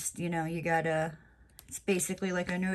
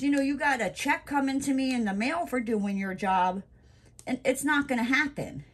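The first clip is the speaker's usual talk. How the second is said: sassy telling off; 2 semitones higher than usual. Retold or imitated. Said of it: "and I'm just like".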